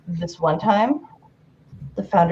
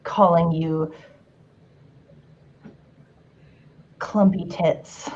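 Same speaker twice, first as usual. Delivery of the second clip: sexy voice. Pretend. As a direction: read it like a seductive love letter. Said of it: "Should I read this in a sexy voice? I will".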